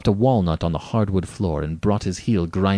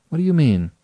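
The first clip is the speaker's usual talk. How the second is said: higher, urgent demand; alarmed question; 8 semitones higher, 5 dB louder, faster than usual. Acted. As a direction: ask in wary disbelief. Rainsford questions the General sharply.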